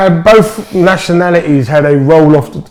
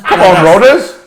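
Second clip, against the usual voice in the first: put-on Del Boy Cockney; 4 semitones higher, 5 dB louder than usual. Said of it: "my Del Boy".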